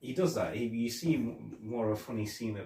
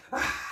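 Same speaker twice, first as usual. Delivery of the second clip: mock startled yelp. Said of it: "he jumps in the car and he goes".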